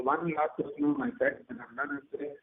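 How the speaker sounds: glitchy, cutting-out phone line; robotic dropouts on a bad call; breaking audio. Real, not acted. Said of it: "but your audio is breaking".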